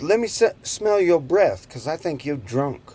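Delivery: officer voice. Retold or imitated. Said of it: "he says".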